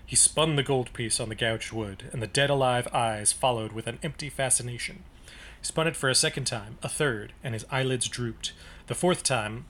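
low, even reading voice for a book passage; story narration. Acted. Podcast host reading the novel to his co-host, a low narrating read.

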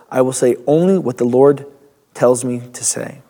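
measured Bible reading aloud; scripture reading. Acted. Pastor reading the Bible passage to the congregation, measured. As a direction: read the passage with weight.

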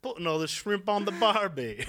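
high, loud mock Australian; Australian accent. Co-host quotes a movie line, high loud mock Australian accent. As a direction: sing out a cartoon Aussie accent. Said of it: "more of an Australian accent now".

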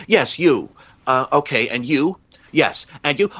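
lightly voiced admiral taking questions, pitched a bit up; playful hint of a polished official picking reporters; a hint of a smug admiral at a press conference; imitating the admiral. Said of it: "he sort of does that thing where it's like".

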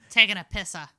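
light Bostonian twist; Boston accent. Acted. Joking on friend's slang, light Boston accent. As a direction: say it with Boston dropped R. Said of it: "I'm doing more of a Boston accent".

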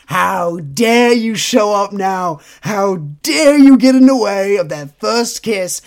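loud, slow indignant fan outrage; mock outraged fans. Host voicing furious fans of the manga, loud and slow. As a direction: rage at the rival like a betrayed fan. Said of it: "They were like".

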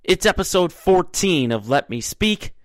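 upbeat sports show host; bright, lively announcer intro. Acted.

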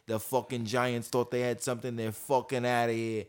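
a hint of a brash New York fan; New York sports fan bragging, lightly done; New York accent. Friend doing a New York fan trash-talking, mild accent. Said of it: "that's my best New York impression".

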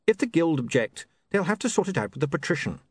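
apologetic and caught out; flustered young man. Acted. William answers.

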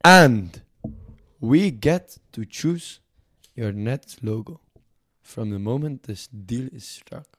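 hammed-up French accent, lightly put on; mock French accent. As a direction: play a pompous French negotiator in a mock accent. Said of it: "Fuck this French accent".

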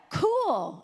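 high, drawn-out clueless approval; imitated well-meaning wrong answer; mock enthusiasm. Gives her clueless reply to daughter.

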